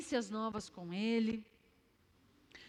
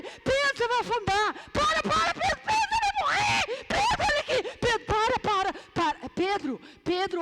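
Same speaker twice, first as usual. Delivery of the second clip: high, loud frantic shouting; panicked disciples screaming from the boat; shrieking warnings at Pedro, much higher and louder; disciples yelling at Pedro; 9 semitones higher, 9 dB louder than usual. Acted. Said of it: "não, eu tô gritando".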